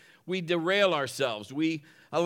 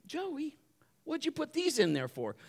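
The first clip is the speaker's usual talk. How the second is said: puzzled dad; 9 semitones higher, 5 dB quieter than usual. Retold or imitated. Dad finds army men in coffee.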